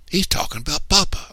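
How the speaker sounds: high, voiced stage whisper; urgent little high voice of a child; child's whisper. A narrator's reading. Cassie tells her brother about Papa, in a high hushed voice. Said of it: "I whispered".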